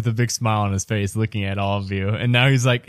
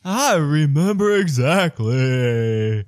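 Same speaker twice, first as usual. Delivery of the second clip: slow, drawn-out put-on father; dad character voice; 3 semitones higher, slower than usual. Ubo's dad answering about crazy lights, comically drawn-out. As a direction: stretch the words out in character.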